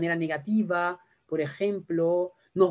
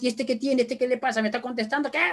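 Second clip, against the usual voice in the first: mock outrage, pitched higher; indignant parent; 4 semitones higher, faster than usual. Parent offended by child answering back, high mock indignation. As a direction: rise into offended questioning. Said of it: "lo primero que digo es".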